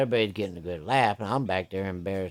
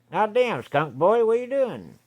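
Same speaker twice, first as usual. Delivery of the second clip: much higher, shocked and disgusted outcry; astonished exclaim; 10 semitones higher, 4 dB louder than usual. Retold or imitated. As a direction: cry out at the stinking man. Willie exclaiming at the smell.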